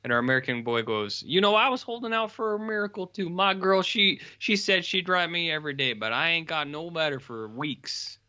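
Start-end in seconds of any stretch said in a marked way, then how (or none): 1.2-8.2 put-on lovesick soldier boy. American boy voiced in retelling.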